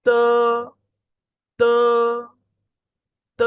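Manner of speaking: long unaspirated ত; Pinyin d as ত. Shown as a demonstration. Teacher models d for the class, drawn-out ত. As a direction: hold ত out as a model syllable. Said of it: "ত এর মতো হবে".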